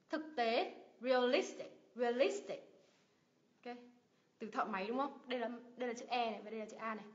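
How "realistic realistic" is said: "realistic" with LIS stressed; weight on LIS, light "tic" in "realistic"; stress before last syllable. Shown as a demonstration. Teacher drilling IC words, stress on LIS in "realistic". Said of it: "nhấn vào âm tiết ngay trước đó".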